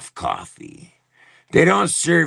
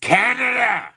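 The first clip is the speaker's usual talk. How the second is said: high, exasperated cry of the country's name; angry outcry; 12 semitones higher than usual. Real, not acted. Streamer cries out to viewers about his country, exasperated. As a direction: call it out like a plea.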